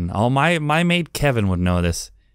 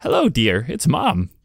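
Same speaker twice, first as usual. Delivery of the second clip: lightly put-on mother voice; a hint of a cheery mum greeting; mom voice. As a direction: attempt at a mom on the line. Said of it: "I can't do a mom voice".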